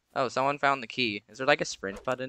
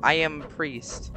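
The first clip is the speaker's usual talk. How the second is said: priest voice; 3 semitones higher than usual. Acted. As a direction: intone it like a grave exorcist priest. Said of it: "I don't know why my voice got lower".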